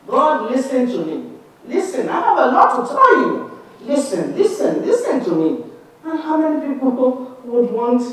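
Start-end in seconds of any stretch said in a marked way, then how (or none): 0.1-5.6 mock insistent demand. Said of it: "telling God to listen to us".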